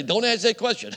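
mock plea from a shy introvert; pleading introvert. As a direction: imitate the embarrassed introvert. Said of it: "Some of you introverts will say".

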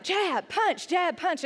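lightly imitated yell, punchy one-word orders. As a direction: call out a drill like a boxing instructor. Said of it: "they yell at you this routine".

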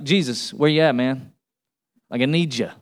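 low, casual, everyday praying; casual prayer. Acted. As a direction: talk to Jesus like a buddy. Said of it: "You don't have to talk like that".

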